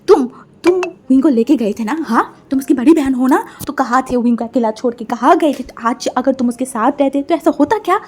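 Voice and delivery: loud accusing mother, scolding; angry scolding. Acted. Mother scolding elder sister, angry and loud. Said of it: "गुस्से में खड़ा हुआ है and उसके तरफ देखा and बोला".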